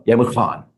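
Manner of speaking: "gaan" with a throaty Afrikaans g; back-of-throat Afrikaans. Shown as a demonstration. Actor repeating the Afrikaans for "you must go", throaty g in "gaan". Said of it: "back of the throat sound".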